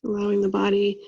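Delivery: even, unhurried meditation voice with long pauses; guided meditation. Acted. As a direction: guide them through a body scan, leaving long silences.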